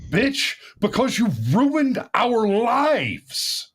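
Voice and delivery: high, mocking complaining woman voice; mock whiny woman. Mocking women who miss catcalling.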